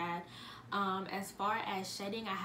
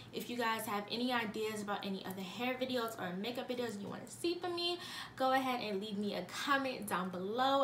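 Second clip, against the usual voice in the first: out of breath; 2 semitones higher, 4 dB quieter than usual. Real, not acted. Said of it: "I'm running out of breath".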